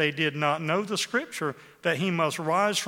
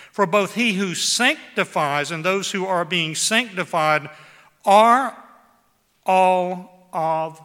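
preaching climax; 2 semitones higher, 8 dB louder, slower than usual. Acted. Preacher's climactic scripture reading.

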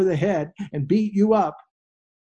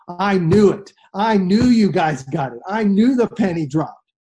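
louder, emphatic "I knew it" delivery; punched, triumphant quoted speech; mock exultation; 2 semitones higher, 5 dB louder than usual. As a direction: voice a teacher thrilled they understood. Voices Christ exulting over his disciples.

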